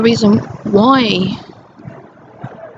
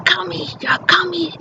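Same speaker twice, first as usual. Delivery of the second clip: imitated ranting mother; 6 semitones higher than usual. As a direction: pile on the insults like a paranoid mother. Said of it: "She'd say".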